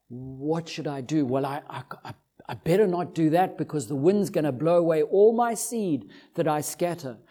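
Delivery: low, hushed dithering of a worried farmer; fretting farmer thinking aloud. Acted. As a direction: stammer softly through second thoughts, lightly in role.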